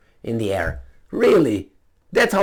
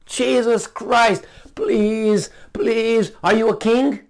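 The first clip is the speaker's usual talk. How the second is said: exasperated; 8 semitones higher, slower than usual. Real, not acted. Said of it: "exasperated outburst".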